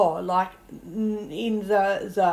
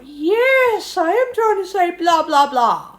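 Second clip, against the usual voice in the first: louder and higher, insisting you've been understood at last; emphatic, exasperated retort; exasperated reply; 9 semitones higher, 6 dB louder than usual. Retold or imitated. Acted exasperated reply to German friend.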